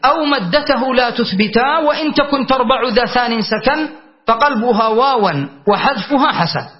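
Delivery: slow, measured chant of a grammar poem; verse recitation. Shown as a demonstration. Teacher reciting the verse to students, slow and measured.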